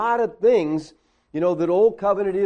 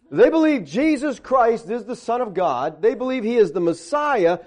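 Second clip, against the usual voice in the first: louder, higher, mocking incredulity; sarcastic recap; 5 semitones higher, 3 dB louder than usual. Real, not acted. Preacher mocks Menachem's reasoning to the congregation, sarcastic and incredulous. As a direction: spell out the logic as if it's absurd. Mock recap of writer's logic.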